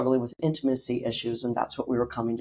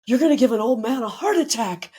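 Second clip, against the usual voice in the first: father's voice; 10 semitones higher, 4 dB louder than usual. Retold or imitated.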